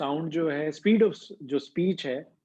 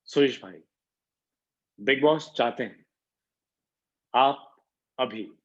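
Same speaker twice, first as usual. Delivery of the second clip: Bigg Boss voice with pauses; 3 semitones lower than usual. Retold or imitated. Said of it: "he is putting pause".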